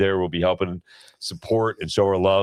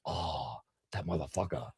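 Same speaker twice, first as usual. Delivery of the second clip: very soft imitated Asian accent; child's hushed cursing in a put-on Asian accent; 15 dB quieter than usual. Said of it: "fucked up face and Asian accent".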